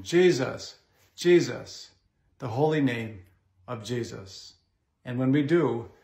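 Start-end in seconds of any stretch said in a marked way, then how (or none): 0.0-4.5 reverent devotion. Shown as a demonstration. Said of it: "Say it with reverence and devotion".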